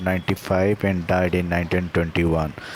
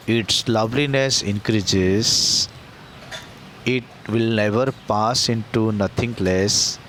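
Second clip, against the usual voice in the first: poem reading. Acted. Teacher reads the poem stanza.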